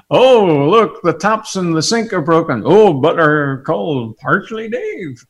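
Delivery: put-on Kerry villager accent, not quite right; botched local accent. Villager with broken taps, in an attempted Kerry accent. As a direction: try a County Kerry accent and miss. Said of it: "That's not the right accent".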